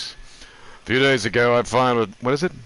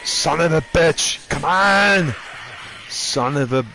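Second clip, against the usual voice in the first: frustrated shout; 5 semitones higher, slower than usual. Real, not acted. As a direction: yell at the game in real frustration. Frustrated at game enemies.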